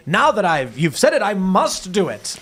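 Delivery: hammy "you've tricked me" act; mock villain's reluctant acceptance. Host acting tricked by a viewer's dare, mock dismay. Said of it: "you have to be like".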